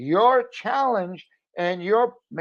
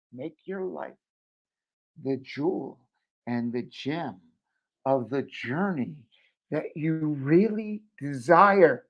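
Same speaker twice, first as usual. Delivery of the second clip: soft inspiring; 2 semitones lower, 4 dB quieter than usual. Real, not acted. Inspirational closing line.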